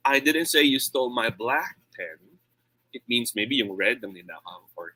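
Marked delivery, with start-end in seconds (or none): 0.1-2.4 "black" stretched and raised in pitch; single out the colour by stressing "black"; emphatic "black", the other words even. Shown as a demonstration. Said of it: "I change the word stress".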